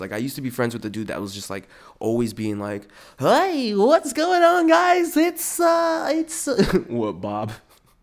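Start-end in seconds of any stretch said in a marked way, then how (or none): 3.2-6.5 very high, loud, booming, swooping, drawn-out game show host. Describing a friend who always had an act on, imitating him as a game show host. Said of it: "it's like he's a game show host".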